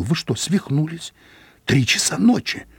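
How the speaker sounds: woken at night and scared, pitched high; frightened. A narrator's reading. Scared guest behind the door, alarmed. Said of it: "голос испуганно спросил".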